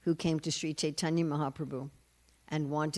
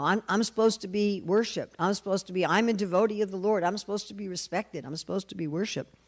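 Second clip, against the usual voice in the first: a touch of higher-pitched, aggrieved insistence; mock indignation; 3 semitones higher than usual. Indra protesting that he deserves worship, mildly indignant. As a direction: imitate a mildly affronted self-important god. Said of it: "who gets really angry".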